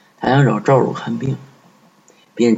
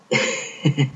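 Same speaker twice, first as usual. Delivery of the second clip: soft creepy chuckle; 3 semitones higher, 5 dB quieter than usual. Acted. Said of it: "赵汝微笑地站在他身旁".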